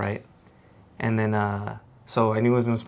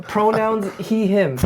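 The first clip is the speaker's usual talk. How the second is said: laughing; 11 semitones higher, 3 dB louder, much slower than usual. Real, not acted. Joking, laughs.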